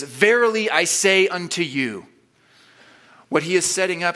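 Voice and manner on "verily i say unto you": slow, lofty scripture-reading voice, a touch higher and louder; old King James phrasing. Shown as a demonstration. Preacher reads the old King James wording, slow and lofty. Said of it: "The old school King James says".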